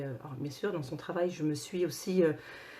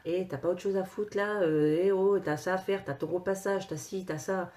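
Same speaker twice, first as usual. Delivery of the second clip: nagging inner chatter; 3 semitones higher than usual. Acted. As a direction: rattle off a mock scolding. Nagging inner chatter during meditation.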